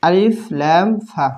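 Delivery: আলিফ লাম ফা spelled out slowly letter by letter; slow spelling. Shown as a demonstration. Teacher slowly spelling the letter name for students. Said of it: "আলিফ বানান হচ্ছে".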